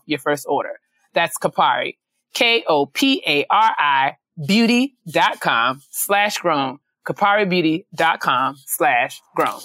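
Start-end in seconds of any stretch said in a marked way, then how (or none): 2.3-9.6 careful, unhurried ad-read pacing; slow, deliberate URL read; slow spelled-out ad read. Shown as a demonstration. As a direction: spell the web address out slowly, letter by letter. Spelling out web address.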